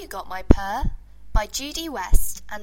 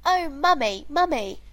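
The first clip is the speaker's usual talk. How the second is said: higher wailing call to mummy; wailing kitten; 5 semitones higher than usual. Acted. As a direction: wail for mummy like a lost kitten. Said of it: "wailed little kitten".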